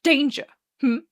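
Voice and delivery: loud, darkly challenging growl. A narrator's reading. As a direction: growl it as a menacing question. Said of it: "as Arthur growls darkly".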